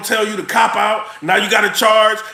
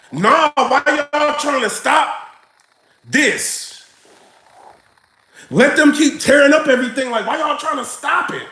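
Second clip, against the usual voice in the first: mocking left media; 5 semitones higher than usual. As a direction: drag it out like a smug pundit. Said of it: "they're gonna be like".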